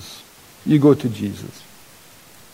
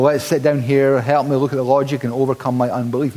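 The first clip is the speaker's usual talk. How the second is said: mock academic calm; faster than usual. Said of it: "It's far too academic".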